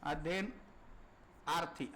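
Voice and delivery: अध्ययनार्थी drawn out very slowly and softly, syllable by syllable; slow stressed word. Shown as a demonstration. Teacher slowly and softly spelling out अध्ययनार्थी for students. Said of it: "अध्ययनार्थ्याचे शब्द येतो".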